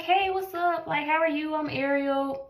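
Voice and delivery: high, sing-song first hello in a put-on sweet voice; friendly greeting. Walking up to her Hinge date, sweet high-pitched hello. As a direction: greet him like a bubbly girl on a first date. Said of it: "I'm like".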